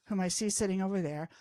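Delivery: plain reading voice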